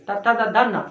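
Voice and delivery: ता था दा धा ना with tongue touching the teeth; dental sounds demo. Shown as a demonstration. Teacher showing class dental ता, था, दा. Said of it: "तो दांत को टच करेगा".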